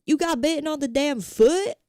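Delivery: a hint of a hard-driving Whiplash teacher; ruthless J K Simmons coach. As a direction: push the streamer like a brutal mentor. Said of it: "I want him to be like".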